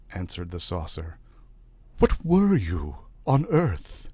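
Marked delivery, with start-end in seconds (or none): 2.0-4.1 slow, awed questioning. A narrator's reading. Questioning spirit at séance.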